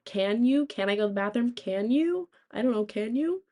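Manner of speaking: mocking teacher quibble. Streamer mimicking teachers who correct grammar, mocking. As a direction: mimic a teacher's smug questioning, pitch lifting at the end. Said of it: "I really hate the whole".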